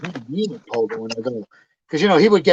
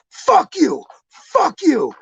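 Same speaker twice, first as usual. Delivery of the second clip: very high-pitched mimicked cursing; mock furious outburst; 4 dB louder, much slower than usual. Woman cursing him in English before storming out, high mock fury. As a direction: imitate her exploding at him, voice shooting up.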